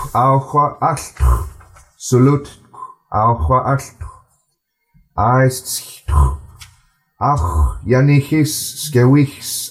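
slow, careful reading in an even flow; steady, unhurried recital for the class to follow; slow read-aloud. Acted. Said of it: "I'm gonna read it a bit slower".

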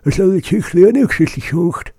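high, lightly put-on asker voice; quoting a customer. Customer at the store asking, lightly voiced. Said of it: "someone asked me".

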